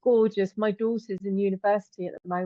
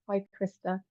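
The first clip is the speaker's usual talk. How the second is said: hammy, badly faked Liverpool accent; clumsy go at a Liverpudlian accent. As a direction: attempt a Scouse accent on the place name. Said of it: "My really horrible attempt at a Liverpudlian accent".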